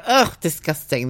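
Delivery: slow, drawn-out retold revulsion; mock disgust. Saleswoman judging engineers' pies, mock disgust. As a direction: groan it out in exaggerated distaste.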